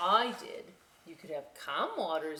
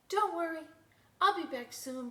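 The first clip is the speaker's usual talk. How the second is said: cheerful; 10 semitones higher, 5 dB louder than usual. Acted. Boat leaving cheerfully.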